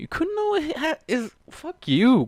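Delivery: high, loud and slow, spitting each word; real angry outburst. Real, not acted. Reader exploding at Kuno's betrayal, furious yell. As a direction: blow up at the character in real anger. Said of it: "I'm upset as fuck right now".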